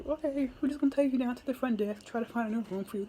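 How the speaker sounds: hotel security lady. Retold or imitated. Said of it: "the hotel security was like".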